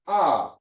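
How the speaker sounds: "ah" alone as an open first syllable; sounded-out syllable. Shown as a demonstration. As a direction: model "ah" separately, aleph left silent. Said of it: "so you pronounce the first syllable".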